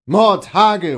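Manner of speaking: loud, high oath; called-out curse. A narrator's reading. Servant thrown from his horse, loud cursing cry. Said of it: "ruf ich".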